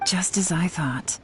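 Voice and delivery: hushed, half-whispered aside; muttered aside. Acted. Thinking aloud about the child's answer, muttered aside. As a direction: say it under the breath, to oneself. Aside to herself, then covered up.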